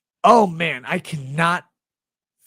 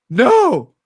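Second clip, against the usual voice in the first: mocking whiny voice; 8 semitones higher, 9 dB louder than usual. Mocking reply.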